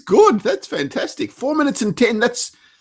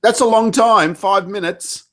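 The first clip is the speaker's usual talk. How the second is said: surprised; 12 semitones higher, 4 dB louder than usual. Real, not acted. Impressed reaction to five minutes.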